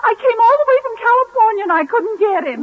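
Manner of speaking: hammed-up wailing sobs; comic sobbing. Tootsie wails to Gracie, hammed-up sobbing. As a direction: sob it out like a lovesick dame.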